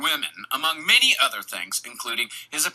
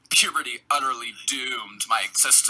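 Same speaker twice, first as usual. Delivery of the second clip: a flatter, lower take on "Puberty utterly doomed my existence"; mock real Rodger; 3 semitones lower than usual. Host showing how the killer really sounds, flatter and lower. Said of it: "but it's more like".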